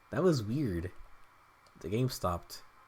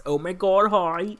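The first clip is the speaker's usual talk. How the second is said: put-on a light Valley Girl "Oh my god, hi"; mock Valley Girl greeting; 5 semitones higher than usual. Fan doing George Lopez's podcast greeting, lightly voiced Valley Girl. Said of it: "I'm saying it wrong".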